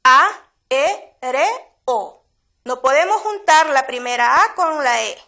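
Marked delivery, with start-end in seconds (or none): 0.0-2.2 "aéreo" broken into A, E, R, O with pauses; syllable by syllable. Shown as a demonstration. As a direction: spell out each syllable of "aéreo" slowly. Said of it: "vemos que ahí hay dos hiatos".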